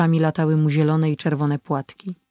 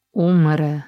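a faint groan of despair; moaned; 3 dB louder than usual. Acted. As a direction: let the word sink out of him in pain. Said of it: "jęknął".

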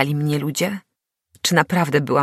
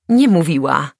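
hysterical laugh; 7 dB louder than usual. A narrator's reading. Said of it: "zaśmiał się histerycznie".

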